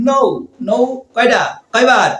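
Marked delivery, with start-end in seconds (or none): 0.1-0.2 "নো" with a long, held o; long vowel sound. Shown as a demonstration. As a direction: stretch the vowel in "নো". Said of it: "আমরা একটু long সাউন্ডে যাই".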